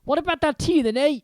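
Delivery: a hearty giant offering tea; Hagrid. Acted. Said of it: "he said".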